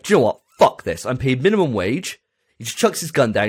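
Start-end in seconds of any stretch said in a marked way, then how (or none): 0.0-2.2 loud, lightly voiced fed-up grunt; a hint of a soldier quitting. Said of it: "And he's like".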